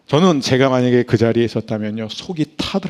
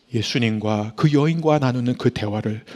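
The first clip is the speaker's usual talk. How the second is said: ordinary talk, nothing marked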